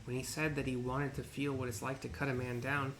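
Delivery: ancient rasping undead king. Acted. Voices pompous merchant.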